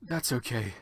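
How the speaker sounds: quiet, mopey reply; depressed. Acted. Draco forgiving the heroine, softly depressed. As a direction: sigh it out, all depressed. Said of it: "he said, all depressed".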